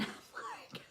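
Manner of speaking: laughing hard, squeaky high. Real, not acted. Laughing at her husband's praise. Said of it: "that is so funny to hear him say that".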